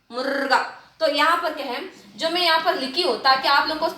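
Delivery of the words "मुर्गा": मुर्गा as "murrr-gaa"; long trill in मुर्गा, no vowel after it; correct rolled r. Shown as a demonstration. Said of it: "मुर्गा नहीं ना".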